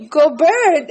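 "Gobert" said go-BURT with r-colored vowel; English-style Gobert. Shown as a demonstration. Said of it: "is like if I pronounce it".

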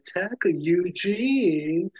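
mild mock call. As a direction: call his name across the dark room. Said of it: "it's like".

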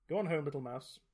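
mildly tender send-off; gently. A narrator's reading. Fighter freeing a tiny mouse, gently. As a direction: coax a small creature along gently. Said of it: "the fighter say gently".

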